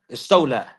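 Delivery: استولى with an l in the last syllable; added lam. Shown as a demonstration. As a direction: say استولى as "istawla". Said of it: "they will add a letter".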